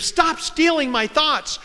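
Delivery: high, drawn-out mock cry; retold scream. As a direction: imitate a distressed scream without full volume. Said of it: "and she screamed".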